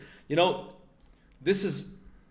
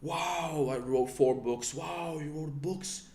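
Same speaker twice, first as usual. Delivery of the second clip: hammed-up disbelief of gushing friends; imitating impressed admirers; 4 semitones higher than usual. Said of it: "things that people praise me".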